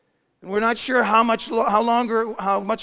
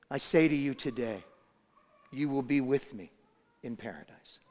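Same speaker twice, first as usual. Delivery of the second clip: faint dying voice; 6 semitones lower, 8 dB quieter than usual. Acted. Dying Jesus answers the thief.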